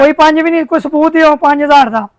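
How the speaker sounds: heated shopkeeper arguing back; indignant denial. Acted. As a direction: deny it hotly and demand proof. Shopkeeper disputes payment in acted quarrel. (ਗੁੱਸੇ ਨਾਲ ਇਨਕਾਰ)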